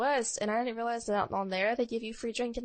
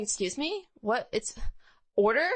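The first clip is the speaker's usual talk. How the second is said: mock shock; 2 semitones higher than usual. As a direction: play up the disbelief, lightly. Her own shocked reaction retold.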